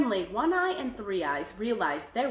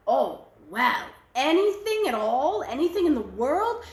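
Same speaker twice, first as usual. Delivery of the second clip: eager sisters; 3 semitones higher, 4 dB louder than usual. Acted. Greedy sisters hear the offer.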